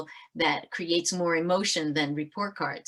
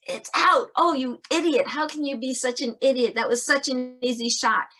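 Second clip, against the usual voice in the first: self-berating player; 6 semitones higher than usual. Retold or imitated. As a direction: beat yourself up over a missed shot. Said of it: "A looks at it and goes".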